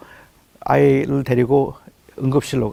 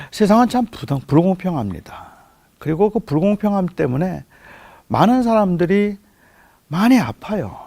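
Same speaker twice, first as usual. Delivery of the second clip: preaching; 3 dB louder than usual. Acted. 교회 회중에게 아픔을 하나님께 털어놓으라고 호소하는 설교. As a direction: plead with the congregation to bring their pain to God.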